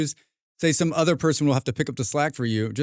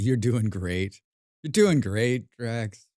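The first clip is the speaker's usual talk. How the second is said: self encouragement; 2 semitones lower, much slower than usual. Real, not acted. Encouraging talk to herself, slow.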